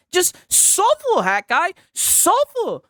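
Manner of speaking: slow, high mocking taunt. Real, not acted. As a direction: drag it out to rub it in. Taunting the rival streamer.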